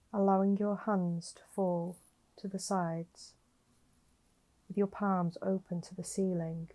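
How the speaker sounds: slightly softened meditation voice with long pauses; guided meditation. Acted. Guiding a listener lying down to notice their breathing, calm meditation voice. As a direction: gently guide the listener into breath awareness, leaving space between phrases.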